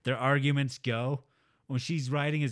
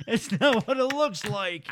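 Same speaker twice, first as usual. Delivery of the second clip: laughing caught excuse; 5 semitones higher, 4 dB louder than usual. Retold or imitated. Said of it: "Did you just say".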